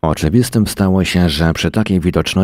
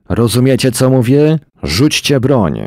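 much higher, louder repeated command; angry shout; 9 semitones higher, 4 dB louder than usual. A narrator's reading. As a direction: shout it again, losing patience. Monroe repeats order, shouting. (wyższy, głośny, gniewny krzyk)

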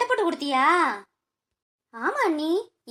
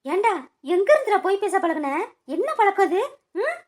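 angry scolding. Acted. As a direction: scold him for lying. Mother scolds son's lying.

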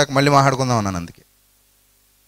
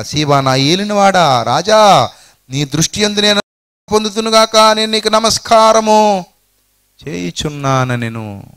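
fawning servant; 3 semitones higher than usual. Acted. Ziba bows before the king.

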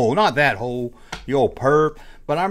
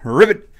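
frog ribbit; 4 semitones higher, 7 dB louder than usual. Retold or imitated. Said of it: "it'd do a frog ribbit".

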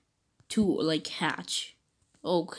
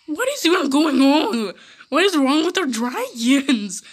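raised, incredulous questioning; exasperated bafflement; 4 semitones higher, 4 dB louder than usual. Acted. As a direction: demand an explanation in disbelief. Baffled outburst at laughing dragons.

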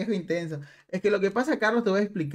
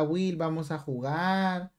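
mock sweet invite; much slower than usual. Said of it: "me saludaba".

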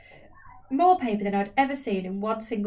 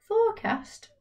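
much higher, startled Forecast?; sharp question; 12 semitones higher, 3 dB louder than usual. Acted. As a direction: snap it back as a suspicious query. Elsie questions the request.

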